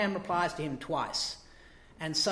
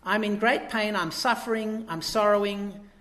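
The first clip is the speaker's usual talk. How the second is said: anguished plea; 3 semitones higher, 6 dB louder than usual. Retold or imitated. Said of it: "That's in fact what he says".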